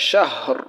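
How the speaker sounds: শাহর drawn out slowly, closing on a vowelless r; slow stopped ending on শাহর; waqf stop form. Shown as a demonstration. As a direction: let the final r of শাহর sound without any vowel after it. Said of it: "সেটার আমরা হরফের উচ্চারণ করব".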